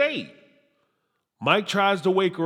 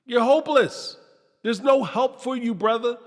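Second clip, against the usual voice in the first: exasperated; 5 semitones higher than usual. Retold or imitated. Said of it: "I'm like".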